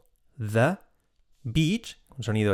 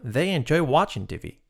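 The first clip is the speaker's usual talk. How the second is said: THEY ENJOY WATCHING T V in a rise-and-fall tune; with intonation; 3 semitones higher than usual. Shown as a demonstration. Teacher modelling the sentence for learners, with intonation. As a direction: give WATCHING a lift, then fall on T V. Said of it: "Con entonación".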